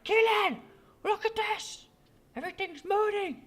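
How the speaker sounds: high, frantic yelling at a friend; retold excited scream. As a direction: call out in panicked excitement. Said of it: "I was screaming at Keelan".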